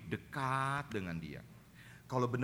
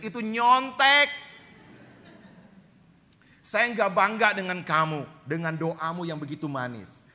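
stern rebuke; 8 semitones higher, 10 dB louder than usual. Retold or imitated. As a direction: scold the cheater loudly. Preacher voices God's rebuke. (teguran keras, tinggi dan lambat)

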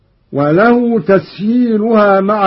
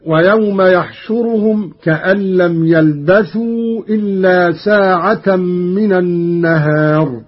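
Quran recitation. Acted. Teacher reciting the verse for students, measured chant.

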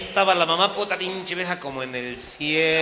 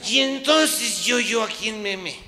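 bewildered plea; 8 semitones higher, slower than usual. Retold or imitated. Husband confused, stammering.

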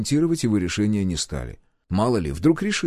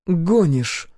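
higher, sceptical one-word question; distrustful; 8 semitones higher, 4 dB louder than usual. A narrator's reading. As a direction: challenge it in disbelief. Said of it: "недоверчиво покосилась на Кашу". (недоверчиво)

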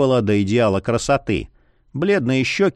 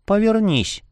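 commanding; 9 semitones higher than usual. A narrator's reading. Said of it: "скомандовала девица".

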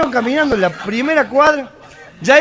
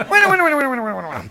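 repetición atropellada que se apaga; calmando a la multitud; 3 dB quieter, much faster than usual. Acted. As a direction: pide silencio bajando tono y volumen. Presidente calma los gritos del público. (orador acallando los vítores, cada vez más bajo)

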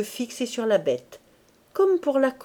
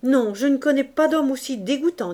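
furious; 5 semitones higher, 3 dB louder than usual. Acted. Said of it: "plus furieuse que les autres".

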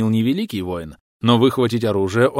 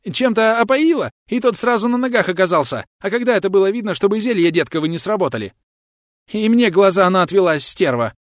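high, frantic country bumpkin voice; high panicky peasant; 11 semitones higher, 4 dB louder than usual. Acted. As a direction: gabble like a scared yokel. Frightened bandit justifies himself. (высокий испуганный голос мужика)

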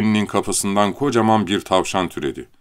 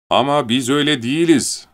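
glad; 6 semitones higher, 4 dB louder than usual. Acted. Leni repeating gladly.

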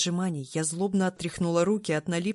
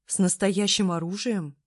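surprised; 2 semitones higher, 3 dB louder than usual. Acted. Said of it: "удивилась я".

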